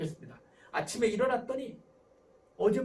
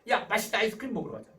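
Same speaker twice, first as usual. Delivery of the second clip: loud, high, breezy brush-off; dismissive parent; 3 semitones higher, 6 dB louder than usual. Acted. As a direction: wave away a crying child's upset. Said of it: "이게 별거 아니다 스타일이에요". (별거 아니라는 듯 가볍고 크게)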